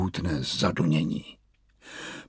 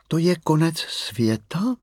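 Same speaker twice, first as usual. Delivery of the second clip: vyšší, pomalá dětská otázka; zvědavá malá holčička; zvědavě; 6 semitones higher than usual. Acted. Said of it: "zeptala se malá Mia zvědavě". (malá Mia se zvědavě a pomalu ptá)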